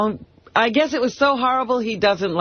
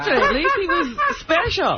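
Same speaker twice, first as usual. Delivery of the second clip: laughing; 11 semitones higher, slower than usual. Real, not acted. Teasing laugh about him.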